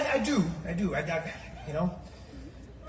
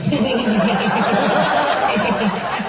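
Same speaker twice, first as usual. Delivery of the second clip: loud impersonated presidential chuckle; long put-on chuckle; George Bush; 7 dB louder than usual. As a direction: chuckle along in a president's caricature voice. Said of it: "George Bush, he didn't speak normally".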